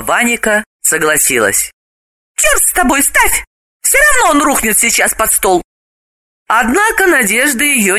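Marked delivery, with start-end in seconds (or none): 2.4-5.6 much higher woman's voice; high resigned woman; reluctant consent. Acted. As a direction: give in grudgingly, high. Galina agrees reluctantly.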